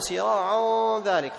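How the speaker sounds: سراعا ذلك with the ghunna made heavy by mistake; wrong heavy ghunna. Shown as a demonstration. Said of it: "خطأ".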